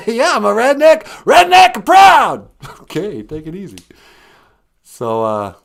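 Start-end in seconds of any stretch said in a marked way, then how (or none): 0.1-2.5 proud redneck holler. Acted. Caller boasts of redneck pride, hammed-up shout. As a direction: belt it out, stretching the last words.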